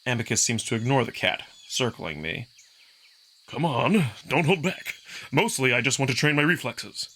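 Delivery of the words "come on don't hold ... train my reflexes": higher, eager and teasing sparring partner; brash wolf fighter inviting punches; cocky young wolf. Acted. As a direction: egg him on with a grin. Amicus urges Marco.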